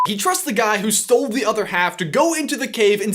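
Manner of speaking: energetic host delivery; presenter read. Acted. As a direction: drive through the script with punch. Reads scripted line to camera.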